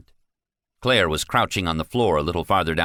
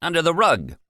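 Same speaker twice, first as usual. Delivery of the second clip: angry yelling; 12 semitones higher than usual. Acted. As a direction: chew out the guard. Manager berates the guard.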